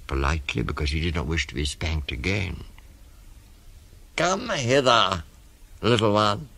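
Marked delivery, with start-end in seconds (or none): 4.2-6.5 coaxing crocodile. Acted. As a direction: lure them in, stretching each word. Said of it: "said the crocodile".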